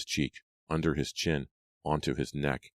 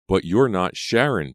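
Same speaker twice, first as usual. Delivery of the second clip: louder, higher protest; 5 semitones higher, 7 dB louder than usual. A narrator's reading. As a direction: push back at her in disbelief. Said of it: "Brady protested".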